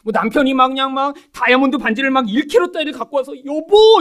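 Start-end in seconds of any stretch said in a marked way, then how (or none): 3.4-4.0 high, loud mock call to a spouse; showy, gushing pretend greeting; hammed-up fond call. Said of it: "이렇게 하길 바라신 거예요?".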